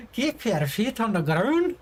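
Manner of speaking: mock Scottish game-dwarf voice; World of Warcraft dwarf accent. Shown as a demonstration. Streamer showing chat their poor Scottish accent, mock dwarf voice. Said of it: "It would only be World of Warcraft dwarf".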